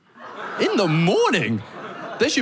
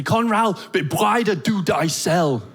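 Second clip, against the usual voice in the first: angry roommate; 2 semitones higher, much slower than usual. Retold or imitated. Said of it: "He's really, really angry".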